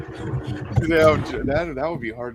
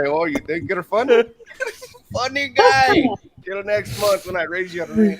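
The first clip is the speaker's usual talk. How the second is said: mock landlord voice; 5 semitones higher, 3 dB louder than usual. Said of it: "My landlord walked and say".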